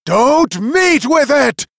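slow, high furious shout; loud, drawn-out angry yell. A narrator's reading. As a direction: shout it after someone running away. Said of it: "shouted the magician after him".

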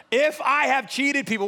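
"If" punched high and loud; loud, high emphasis on "If"; stress on IF. Acted. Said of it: "I love it says if".

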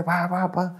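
high, soft mock volley; imitated venting outburst. Acting out cursing at the tribuna, mock outburst. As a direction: mimic letting rip with little noises, softly. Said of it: "te imaginabas que uno era".

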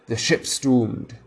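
slow, drawn-out cry of doom. A narrator's reading. Superstitious pirates taking up the cry, slowly. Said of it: "took up the cry".

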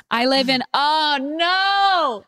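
put-on English accent slipping into Australian; botched English accent. Reader realising the story needs an English accent, muddled Australian-English accent. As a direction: attempt English, land in Australian. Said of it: "mix up my Australian with my Eng".

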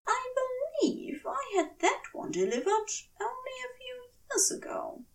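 breathy hushed confession; a sheepish whisper to Crowley. Acted. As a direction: whisper it, half embarrassed. Aziraphale admits the new mattress.

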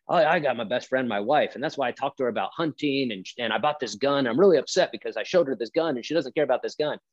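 lightly put-on upset husband; lightly voiced husband. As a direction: mildly mimic a husband griping about his wife. Voicing an upset husband in retelling.

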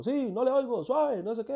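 loud, high-pitched fake phone shouting; making a scene. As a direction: make a racket pretending you can't hear the caller. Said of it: "Voy haciendo un escándalo". (haciendo un escándalo al teléfono, a gritos fingidos)

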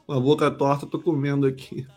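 talking while chewing; words around a bite of food; mouth full. Real, not acted. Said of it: "Ele tá falando de boca cheia". (falando de boca cheia)

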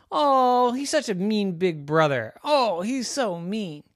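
拖长声音的委屈抱怨; whiny little girl. A narrator's reading. Girl whines about brother.

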